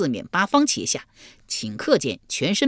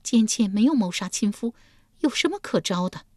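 higher woman's voice, defiant but weak; weak protest; 6 semitones higher than usual. Acted. Yulian answers the guard, higher and strained. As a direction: hold your head up and protest. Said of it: "玉莲强撑着头颅回道".

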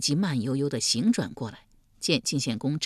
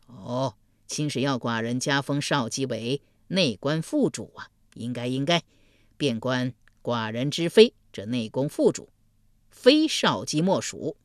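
duke; 4 semitones lower than usual. Acted. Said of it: "晋献公恍然大悟".

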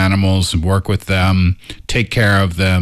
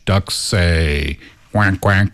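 duck quacking; 3 semitones lower, much slower than usual. Shown as a demonstration. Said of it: "You're very good at making animal sounds".

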